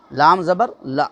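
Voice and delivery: لا said short with a quick lift at the end; short la spelled out. Shown as a demonstration. Teacher spelling out the short لا for students. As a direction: spell out لام زبر لا with a brief لا. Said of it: "فرق ہے".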